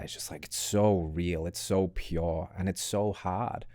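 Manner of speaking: slow, moved words; getting emotional. Real, not acted. Host moved by guest's story about his dad, slow and emotional. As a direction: let the feeling slow you down. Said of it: "I'm getting emotional".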